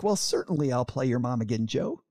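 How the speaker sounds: a hint of a sweet, gracious mother; nice mom voice. A kind mother gently agreeing to record again, lightly voiced. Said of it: "in her very nice mom voice".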